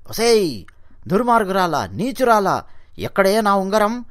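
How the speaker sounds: scolding his wife over the lost ring, angry; angry husband yelling. Acted. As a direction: demand the ring back in anger. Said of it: "అని చెప్పి అరుస్తాడు".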